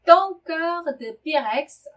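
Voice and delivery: French sentence said very slowly, syllable by syllable; careful French teacher reading; slow model reading. Shown as a demonstration. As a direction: read it out slowly for learners. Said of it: "slow model reading".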